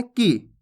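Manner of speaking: "की" cut short, little time on the vowel. Shown as a demonstration. Teacher showing learners the small i, "की" said short. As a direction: say "की" with a short, quick i. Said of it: "इसके उच्चारण में कम समय लगता है".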